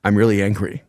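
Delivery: stating anger with no emotion at all; deadpan, no emotion. Retold or imitated. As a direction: say "I'm really angry." flatly, like reading a grocery list. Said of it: "there's no emotion behind it".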